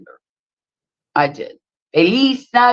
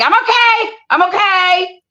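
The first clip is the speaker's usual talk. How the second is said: much higher, sing-song tipsy daughter voice; imitating drunk daughter; 11 semitones higher than usual. Daughter stumbling up stairs answering mom, high mock voice. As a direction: play the wobbly teen insisting she's fine. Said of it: "she's like".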